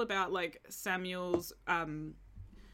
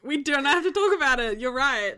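laughing; 5 semitones higher, 10 dB louder than usual. Retold or imitated. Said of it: "I was like".

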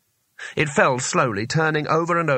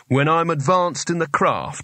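mocking the wizard; 4 semitones higher than usual. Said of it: "Lad, am I?".

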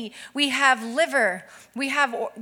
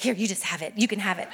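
lower, softer voice; retold giving sister; 4 semitones lower, 5 dB quieter, faster than usual. Older sister gives in to crying toddler, quietly giving. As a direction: hand it over quietly, a slight laugh at the end. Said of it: "Kennedy's like".

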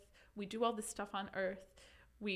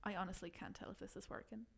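put-on reading in a light Irish accent; a hint of Irish accent. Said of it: "do you think I could do it in Irish?".

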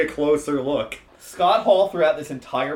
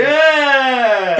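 excited shout; 9 semitones higher, 9 dB louder than usual. Real, not acted. Mock hype at entrance music.

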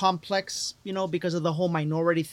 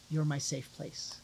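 tender quote; 9 dB quieter, slower than usual. Retold or imitated. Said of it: "She says".

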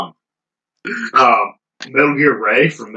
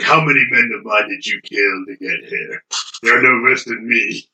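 Lazarevich impression. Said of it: "that's my impression of Lazarevich".

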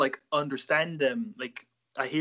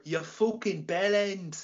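Irish slang insult; 5 semitones higher, slower than usual. Acted.

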